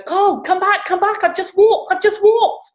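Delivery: very high, thrilled cry; excited calling out. Retold or imitated. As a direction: call a husband back with breathless news. Acting out woman excitedly calling her husband.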